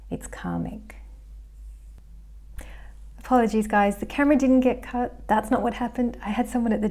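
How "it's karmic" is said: a breathy unvoiced whisper, like a secret. Real, not acted. To viewers, whispering the karmic punchline softly. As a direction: drop to a hushed whisper on the last word. Ominous aside after karmic point.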